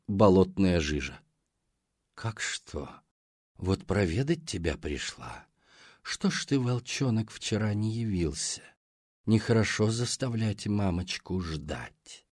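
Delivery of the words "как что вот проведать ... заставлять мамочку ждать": gurgling monster. Acted. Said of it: "пробулькал голос".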